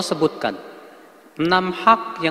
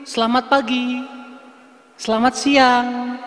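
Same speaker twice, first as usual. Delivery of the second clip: casual greeting; 5 semitones higher, slower than usual. Retold or imitated. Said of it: "Jangan antum ganti".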